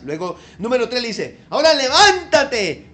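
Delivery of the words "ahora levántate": loud, slow and high "No temas"; God comforting Hagar, loud and drawn out; booming divine voice. Acted. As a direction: proclaim it like God from above.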